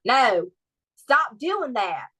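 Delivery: slow, drawn-out Southern drawl; Southern accent. Shown as a demonstration. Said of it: "my Southern accent will come out with my sister".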